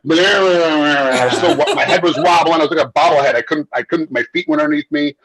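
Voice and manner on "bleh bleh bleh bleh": dazed babble. Retold or imitated. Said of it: "in reality, I was like".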